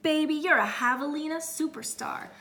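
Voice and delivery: high and loud showbiz agent; slick agent. Acted. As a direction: sell it like a hype man.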